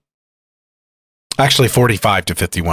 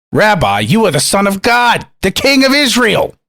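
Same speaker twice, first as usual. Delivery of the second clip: high, rising declaration of faith; hammed-up high-pitched acclamation; exclaimed proclamation; 10 semitones higher than usual. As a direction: proclaim it, climbing higher with each phrase. Acts out Nathanael's awed declaration.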